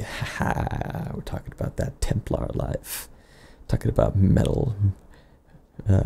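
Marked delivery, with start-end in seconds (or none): 0.0-3.1 whispering. Acted. Sudden hushed aside to camera.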